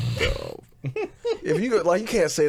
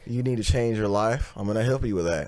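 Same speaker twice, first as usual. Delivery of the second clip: pastor voice. Retold or imitated. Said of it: "Like, a pastor".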